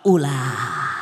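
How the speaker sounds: low, gentle refusal; the Prophet refusing. Acted.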